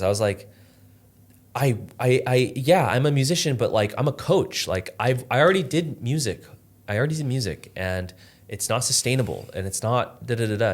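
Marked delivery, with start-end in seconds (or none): 1.5-10.7 retold irritation. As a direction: push back, annoyed and flustered. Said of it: "pissed when she said this".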